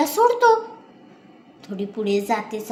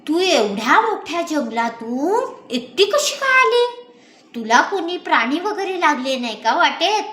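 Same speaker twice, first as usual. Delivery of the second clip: worried daughter; 6 semitones higher than usual. A narrator's reading.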